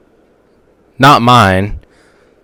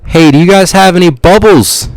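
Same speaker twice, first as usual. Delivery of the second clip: put-on prank voice; 6 semitones higher, 3 dB louder than usual. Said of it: "I put on this voice".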